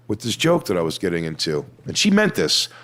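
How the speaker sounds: normal talking voice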